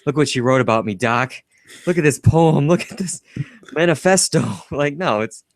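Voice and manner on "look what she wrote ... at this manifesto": mock Marty. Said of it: "it's not like".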